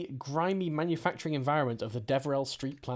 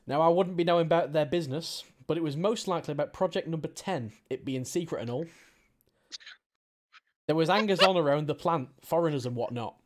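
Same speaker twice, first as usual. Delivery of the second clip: put-on Cockney accent. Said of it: "my amazing Cockney accent".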